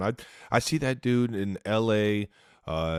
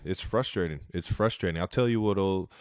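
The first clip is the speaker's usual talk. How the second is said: usual speaking voice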